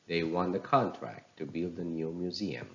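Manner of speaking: "contract" with full CON, weaker TRACT; noun stress. Shown as a demonstration. Teacher repeats example sentence, "contract" stressed on CON. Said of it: "the first part".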